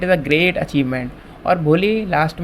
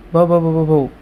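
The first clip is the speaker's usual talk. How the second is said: stammering. Retold or imitated. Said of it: "बस इतना ही कह पाती है वो, क्योंकि हमें पता है वो स्टैमर करती है".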